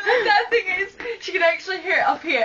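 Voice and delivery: high, laughing delivery. Real, not acted. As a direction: laugh through the line. Laughing while telling.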